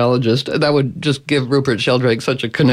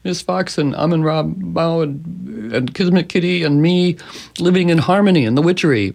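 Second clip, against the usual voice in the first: higher, singsong story voice for the pets; bedtime story voice; 5 semitones higher than usual. Retold or imitated. Owner telling her pets their bedtime story, singsong.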